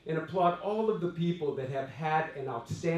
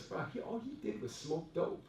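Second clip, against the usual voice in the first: laughing; 11 dB quieter than usual. Retold or imitated. Friend laughing while telling.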